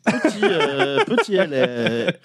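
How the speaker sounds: laughing. Real, not acted. Guessing the sound, laughing.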